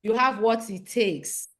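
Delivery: slow, firm affirmation; booming affirmation. Shown as a demonstration. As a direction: lead the chant slowly, every word firm. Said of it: "By saying".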